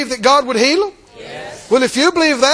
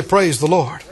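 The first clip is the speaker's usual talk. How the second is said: congregation response shout; 6 semitones lower, slower than usual. Real, not acted. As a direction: call out praise the Lord. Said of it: "Somebody say".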